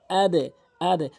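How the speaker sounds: slow, loud আদে, the d bouncing into "e"; downward qalqalah bounce. Shown as a demonstration. Teacher repeating for learners, loud downward bounce on the d in আদে. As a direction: push hard off the d in each আদে, slowly. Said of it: "আদে কিন্তু নিচের দিকে".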